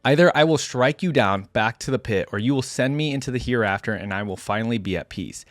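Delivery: deliberate, solemn narration with defiant peaks; dramatic story reading. A narrator's reading. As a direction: read a hunted warrior's account with gravity. Reads first-person story aloud.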